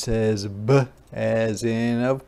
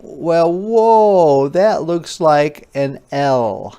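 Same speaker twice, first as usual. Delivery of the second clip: higher, louder "whoa", voicing an astonished kid; surprised child; 3 semitones higher, 4 dB louder than usual. Teacher voicing a child who confuses I and L, surprised. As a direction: playfully mimic a surprised child. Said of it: "you may be saying".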